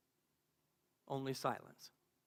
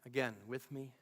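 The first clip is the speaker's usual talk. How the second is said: low and soft, with space between words; hushed refrain; 6 semitones lower, 6 dB quieter, slower than usual. Acted. Speaker inviting listeners to repeat the refrain, hushed and low. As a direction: lead them gently in a low voice.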